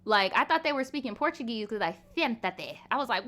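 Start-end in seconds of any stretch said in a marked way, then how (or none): 2.1-2.8 "Siéntate" with the s lisped into th; mock a Spain Spanish lisp on "Siéntate"; imitated Spanish lisp. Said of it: "they sound like they got a lisp".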